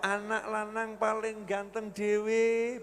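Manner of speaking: slow, soft fond praise of a son; soft slow doting parent; proud parent praise. Retold or imitated. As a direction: dote on the boy, slowly. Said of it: "jawabannya apa?".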